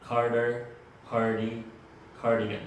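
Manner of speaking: cardigan built up piece by piece, "Carter, cardi, cardigan"; model pronunciation. Shown as a demonstration. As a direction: say "cardigan" in separated, emphatic steps. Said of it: "entonces quedarían pronunciadas así".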